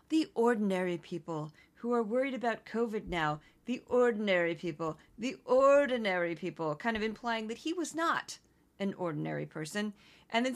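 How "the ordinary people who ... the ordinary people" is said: a hint of a smug pundit; mocking imitation. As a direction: mimic a self-important expert. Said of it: "he kept saying ordinary people, like".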